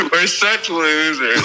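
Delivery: words through laughter; laughing. Real, not acted. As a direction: laugh while saying it. Laughing at themselves.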